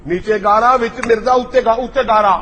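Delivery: loud, gleeful ridicule of the mud layers; mocking punchline. Real, not acted. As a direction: hammer out each layer for laughs.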